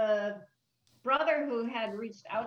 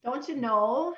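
Minnesota accent; 2 semitones higher than usual. Shown as a demonstration. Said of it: "give us a few phrases or words that typify that type of an accent".

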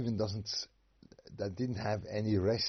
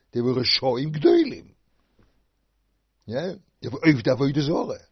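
loud, higher, fast by the end; preaching at full force; fierce condemnation; 5 semitones higher, 11 dB louder than usual. Acted. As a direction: hurl the charge at them.

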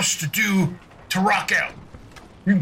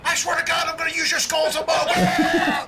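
high, hammed-up yelled threat; raging threat; 9 semitones higher than usual. Raging player threatens the guards at the gate, yelled. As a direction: shout the threat at a high pitch.

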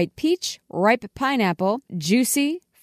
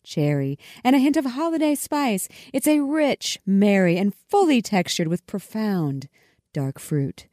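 smooth ad read; Hallmark announcer voice. Shown as a demonstration. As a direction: read it like a holiday commercial. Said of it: "let me put my announcer voice on".

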